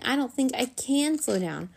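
high voice with put-on panic; panicky squeak. A narrator's reading. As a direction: squeak it as if losing control. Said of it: "making his voice sound panicky".

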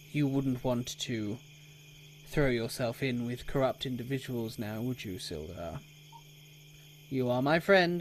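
lightly voiced stern warning; a hint of pompous admonishment; stern townmaster. Townmaster cautions his friend Sildar against corrupt company, mildly stern. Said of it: "really stern look".

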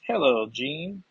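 attempted Scottish lilt, rising at the end; bad Scottish accent. Moira greets Jean after stabbing her, bad Scottish accent. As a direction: put on a poor Scottish accent. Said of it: "that's a horrible Scottish accent".

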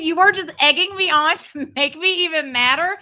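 real heated tirade; worked-up, accusing rant; angry. Real, not acted. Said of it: "I am so angry right now".

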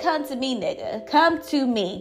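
lightly voiced coyote, mock challenge; a hint of a menacing coyote daring a fight; taunting coyote voice. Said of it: "it would have said".

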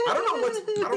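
rough, strained throat voice; hoarse voice. Real, not acted. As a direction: speak with a sore, hoarse throat. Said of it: "what's wrong with my voice".

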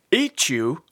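puzzled. Acted. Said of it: "asked Father Osprey".

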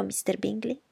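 seek agreement triumphantly; triumphant Mrs Bennet. Acted. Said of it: "continuò trionfante".

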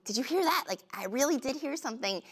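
high, anxious questions; nervous. Retold or imitated. Wife hearing creaks in farmhouse, nervous and high. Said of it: "I was like".

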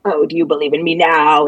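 low, mocking demon voice. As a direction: sneer it as the possessed priest. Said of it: "and his demon voice".

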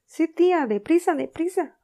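very loud, high hurried shout; panicked urging. Acted. Sid urging Aunt Polly upstairs in a panic. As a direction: rush her, frantic.

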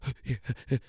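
quick, breathy mock laugh; overwhelmed laugh. Everyone reacting to endless new offers, overwhelmed laugh. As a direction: laugh as if swamped by it all.

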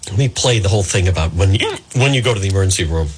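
low voice caught by a hiccup. Real, not acted. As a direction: stumble on a hiccup and restart. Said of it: "cure me of these hiccups".

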